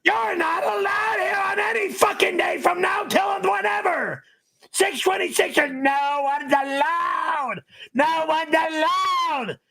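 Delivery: furious high-pitched yelling; angry shouting. Real, not acted. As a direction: yell the ban at the top of your voice. Angry host bans fans from party.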